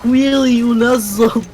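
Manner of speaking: put-on giggly uwu baby talk; breathy cutesy giggly. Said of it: "made a fucking ooh-woo version".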